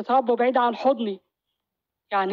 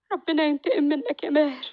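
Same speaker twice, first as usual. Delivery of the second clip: higher, bitter curse on Maher; wife's curse; 4 semitones higher than usual. Acted. Wife cursing Maher, in a raised bitter voice. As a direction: call God's vengeance down on him.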